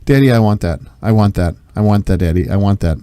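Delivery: insistent repeating child, lightly imitated; Atticus. Father imitating his child asking Daddy, insistent. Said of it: "my Atticus will repeat the same".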